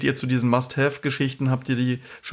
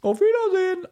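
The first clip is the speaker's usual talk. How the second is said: Piepsstimme. Pretend. Scherzhafter Abschied mit Piepsstimme.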